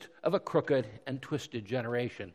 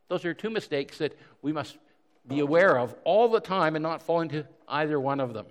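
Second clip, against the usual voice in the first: normal talking voice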